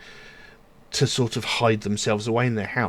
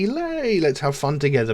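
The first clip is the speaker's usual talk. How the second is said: mock excited; 5 semitones higher than usual. Early carefree crazy mood quoted.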